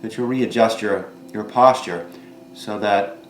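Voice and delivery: calm instructor voice with long pauses between phrases; guided meditation. Real, not acted. Yoga teacher guiding seated students to notice their bodies, calm guided meditation. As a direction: guide them gently inward, leaving room after each thought.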